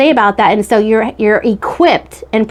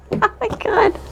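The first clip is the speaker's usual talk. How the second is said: surprised gasp; 11 semitones higher, 7 dB quieter than usual. Real, not acted. Surprised by bird on camera.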